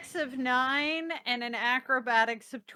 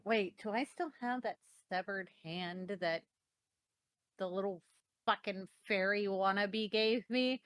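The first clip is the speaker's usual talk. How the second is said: muttering to herself; 8 semitones lower, 10 dB quieter than usual. Acted. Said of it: "pats a pocket going".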